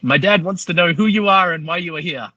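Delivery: high child interpreter imitation; eight-year-old kid. Boy relays his father's questions to foreign driver, imitated kid voice. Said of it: "It's like this eight-year-old kid".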